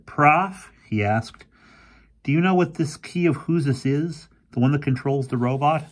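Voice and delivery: a hint of a spooked young boy; boy Fergie.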